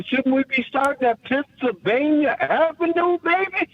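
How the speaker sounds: sly, rising tease toward the punchline; teasing buildup. Acted. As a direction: draw them in, then land it with a wink.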